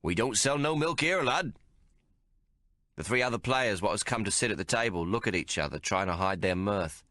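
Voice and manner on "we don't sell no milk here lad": landlord's refusal. A narrator's reading.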